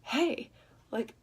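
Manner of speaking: high-pitched, disapproving jab; rude tone. Shown as a demonstration. Speaker showing how not to criticise a partner, rude and disapproving. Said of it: "in a rude way".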